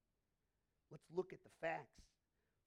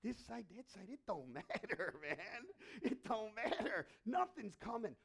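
1 dismissive fisherman; 4 semitones higher, 7 dB louder than usual. Acted. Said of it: "He's like".

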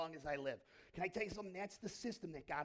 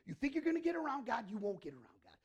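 preaching shout; 5 semitones higher, 7 dB louder, faster than usual. Real, not acted. Preacher warns the congregation.

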